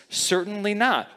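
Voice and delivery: "Certainly not" pitched high, firm and clipped short; preacher stressing "Certainly not"; emphatic denial. Retold or imitated. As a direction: quote Paul's firm refusal. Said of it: "it's an emphatic statement to say".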